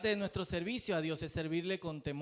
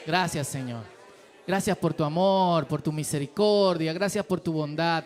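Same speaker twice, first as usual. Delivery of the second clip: fervent spoken prayer, a touch louder; leading prayer; 4 dB louder than usual. Real, not acted. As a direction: pray aloud for the whole church, earnest. Leads the congregation in prayer.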